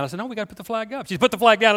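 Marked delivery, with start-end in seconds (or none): 0.2-1.1 imitated insistent kid. Child arguing back with mom. 1.2-1.8 louder, higher mock-mom order; imitated insistent mom. Mom telling her little kid off in a restaurant, imitated insistence.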